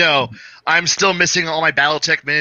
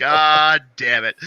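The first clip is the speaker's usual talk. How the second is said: drawn-out exasperation; much slower than usual. Retold or imitated. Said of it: "And I'm like".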